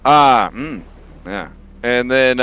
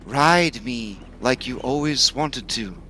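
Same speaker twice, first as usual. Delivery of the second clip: dragon voice; 2 semitones higher than usual. Acted. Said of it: "this is my dragon voice now".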